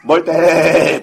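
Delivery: mild, shaky attempt at a taunt; nervous trembling call. Boy copying his friends' taunt, nervous trembling call. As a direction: act brave while nervous. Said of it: "떨려".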